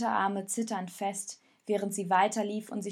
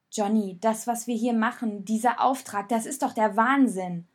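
raised, exasperated protest; agitated outburst; 6 dB louder than usual. Acted. Raoul changes the subject, loud and exasperated. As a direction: throw up the whole mission as madness.

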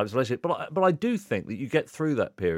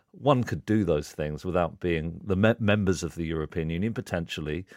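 politician voice; 4 semitones lower than usual. Retold or imitated. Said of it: "Why have you started speaking like a politician".

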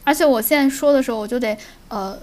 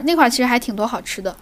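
ordinary delivery

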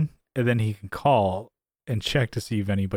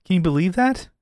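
much higher, put-on storytelling voice; made-up story; 9 semitones higher than usual. Schemer telling the girl about running into Jerry, put-on high voice. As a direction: pitch up and play-act a fake coincidence. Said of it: "make up the story".

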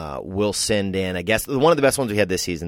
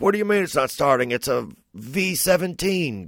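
panicked car owner; 11 semitones higher, 4 dB louder than usual. Retold or imitated. Adam voiced panicking about car.

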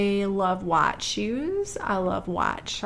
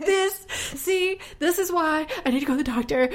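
laughing; 7 semitones higher than usual. Real, not acted. Laughing at blood everywhere.

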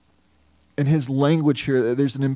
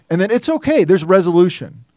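mock relief; 4 semitones higher, 5 dB louder than usual. Mocking a quick resolution.

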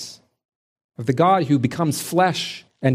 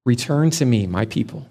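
the Father's voice; 3 semitones lower than usual. Acted. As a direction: offer it gently, without raising it. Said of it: "we hear the Father's voice".

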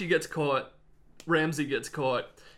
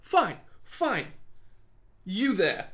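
higher, imperious mock noble; haughty command; 5 semitones higher, slower than usual. Ramsay summons Archibald, haughty mock noble. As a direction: bark the order down at him. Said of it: "He's like".

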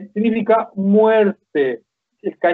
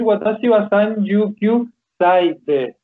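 slow demo; slower than usual. Shown as a demonstration. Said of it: "tengo que decir".

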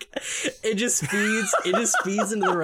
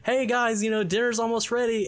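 higher, sing-out mother voice; a hint of cartoon mom; lightly voiced mom; 6 semitones higher than usual. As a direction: call the kids like a mom. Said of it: "their mom's like".

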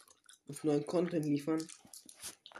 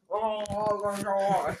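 laughing; 5 semitones higher, slower than usual. Real, not acted. Laughing at the candy.

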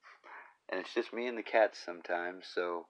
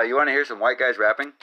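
hyped intro; 4 semitones higher, 9 dB louder, faster than usual. Acted. Excited host intro.

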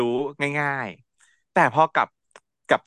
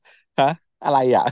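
confused; 4 dB louder, much slower than usual. Retold or imitated. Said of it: "ลุงเขางงว่า".

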